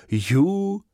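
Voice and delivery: high surprised exclamation; amazed wow. Acted. Fífa marveling at a red car, high surprised wow. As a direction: gasp in wonder at the red car. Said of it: "podivil se Fífa".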